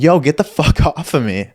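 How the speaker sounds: a laughing yell at the guy with the wallet in his face; laughing shove-off. Retold or imitated. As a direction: shout him away through a laugh. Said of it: "I'm like".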